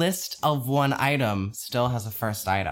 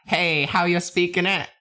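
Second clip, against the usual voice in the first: put-on botched Southern accent; 7 semitones higher than usual. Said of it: "What the fuck was that?".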